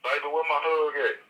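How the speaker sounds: N=LaShawn/private; playful LaShawn voice. Retold or imitated. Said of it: "LaShawn gonna say".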